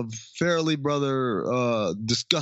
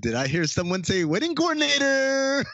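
flamboyant voice; 12 semitones higher than usual. Retold or imitated. Flamboyant guy voiced in retelling.

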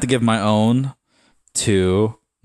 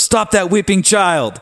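the misread line, pitched way up and stretched; high mock wail; 10 semitones higher, slower than usual. Shown as a demonstration. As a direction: stop that weeping child, much higher and slow. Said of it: "And I thought it was".

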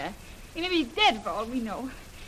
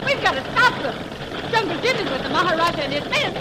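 loud, higher panicked cry; panicked shout; 5 semitones higher, 7 dB louder than usual. Acted. Brill fearing the tanks will kill Jim, panicked shout. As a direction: cry out in desperate fear.

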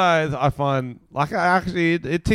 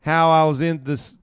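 put-on American accent; 4 semitones higher, 3 dB louder than usual. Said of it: "do your best American accent".

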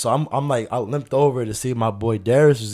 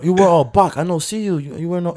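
put-on Aziatisch accent; 6 semitones higher, 3 dB louder than usual. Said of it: "trying to say black".

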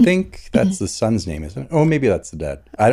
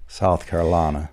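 put-on Southern accent; 3 semitones lower, 4 dB quieter than usual. Echoing co-host's state name, Southern accent. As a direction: echo it softer in a mock Southern accent.

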